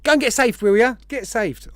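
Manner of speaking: loud, high mock Australian accent. Host urging chat to get saved, in a mock Australian accent. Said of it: "Obviously with an Australian accent".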